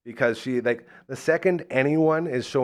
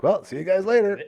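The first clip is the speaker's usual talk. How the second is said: quick, higher-pitched sign-off; retold breezy farewell; breezy goodbye; 7 semitones higher than usual. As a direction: toss off a cheerful exit line. Acted breezy exit in story.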